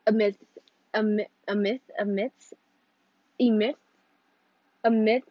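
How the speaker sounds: "myth" tried over and over with halting restarts; failed attempts at saying "a myth"; stumbling over a word. Real, not acted. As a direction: trip on "a myth", stopping and retrying. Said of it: "not even gonna try to say that word".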